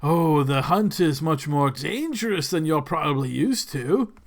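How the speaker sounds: lightly voiced lord relishing the danger; eager aristocrat, swelling then confiding; animated lord. Lord Quentin hinting at a dangerous hunt, lightly voiced animated lord.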